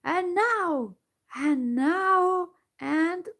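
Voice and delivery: high, loud fierce build-up; the gnome king after drinking, fierce and loud. A narrator's reading. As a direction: hammer each and now harder. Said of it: "said fiercely".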